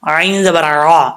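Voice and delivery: عین زبر را sounded slowly; slow spelling. Shown as a demonstration. Teacher spells letters slowly for class. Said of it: "عین کو clear کر کے پڑھنا ہے".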